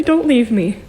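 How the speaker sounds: voicing a clingy plea; pleading being. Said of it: "type feeling".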